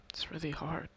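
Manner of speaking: choked up. Real, not acted. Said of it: "sorry again for getting emotional".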